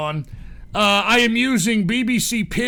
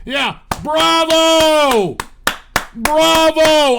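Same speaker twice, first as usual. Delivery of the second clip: loud, high cheering; cheering bravo; 7 semitones higher, 6 dB louder, much slower than usual. Real, not acted. Fan cheering the team, loud and thrilled. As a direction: cheer them on with full excitement.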